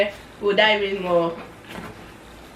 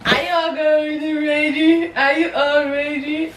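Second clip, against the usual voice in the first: hype-up call; 7 semitones higher, 3 dB louder than usual. Real, not acted. Hyping viewers before the reveal.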